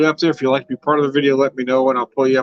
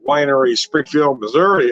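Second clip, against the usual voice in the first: put-on lightly done old radio announcer reading the label. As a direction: read the wine label like a radio ad. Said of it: "went into A M radio voice".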